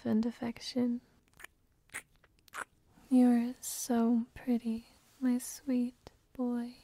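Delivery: intimate whispered roleplay throughout. Acted. Mommy soothing her sleepy boy, whispered. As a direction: whisper close and tender to a sleepy partner.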